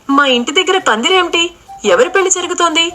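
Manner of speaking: sudden alarmed wonder at her own door; surprised. A narrator's reading. Jyothi sees wedding canopy. (ఆశ్చర్యంతో ఎత్తైన గొంతులో ప్రశ్నలు)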